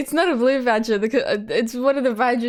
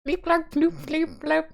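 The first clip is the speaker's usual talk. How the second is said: high-pitched alien gibberish; alien language; 7 semitones higher than usual. Acted. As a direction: play a little alien speaking in nonsense syllables. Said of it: "do I commit to the alien language?".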